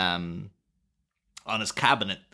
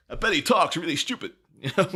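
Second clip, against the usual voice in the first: put-on Newsies newsboy accent. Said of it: "That's my, my Newsies impression there".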